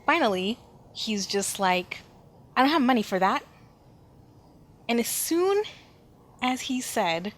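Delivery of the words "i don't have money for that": a blunt, louder no from a Southern coach dad; gruff dad. Retold or imitated. Dad shutting down his kid's candy plea, curt and loud. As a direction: bark the refusal like an old coach. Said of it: "that's how my dad talks".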